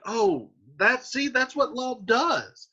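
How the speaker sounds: high, worked-up modern voice; exasperated paraphrase. Retold or imitated. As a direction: throw up your hands at love. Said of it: "he's like".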